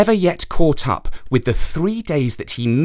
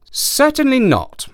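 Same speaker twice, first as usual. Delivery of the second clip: high djinn voice; 13 semitones higher than usual. Acted. Djinn answers the horse.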